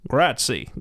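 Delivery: bad Italian accent, lightly done; an American faking an Italian accent; Brad Pitt. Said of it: "Trying to pretend that he's an Italian man".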